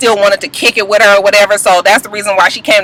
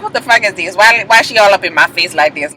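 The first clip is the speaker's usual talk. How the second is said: unimpressed muttered retort; 4 semitones lower than usual. Retold or imitated. Imitated star asking friends about the intruder, low annoyance. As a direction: toss it off low, under the squealing. Voicing Joseline's reply after Shay's squeal.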